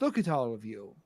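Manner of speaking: cool, understated scolding; composed, disdainful madam. Acted. Plays Madam Storybrooke.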